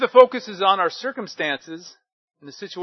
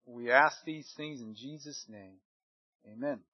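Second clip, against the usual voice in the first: softening opening prayer, fading quieter; 4 dB quieter than usual. Real, not acted. Pastor praying over the congregation, gently hushed. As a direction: pray it gently, drifting softer.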